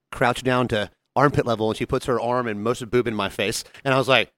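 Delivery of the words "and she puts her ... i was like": ordinary talk, nothing marked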